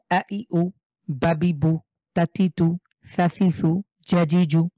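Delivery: each harakat clipped short with no drawn-out vowel; short vowels, no stretch. Shown as a demonstration. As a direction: read আ, ই, উ, বাবি one by one, never lengthened. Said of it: "টান ছাড়া দ্রুত পড়তে হয়".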